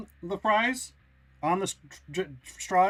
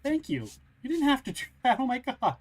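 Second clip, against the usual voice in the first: touched; 5 semitones higher than usual. Real, not acted. Overwhelmed thanks for gift.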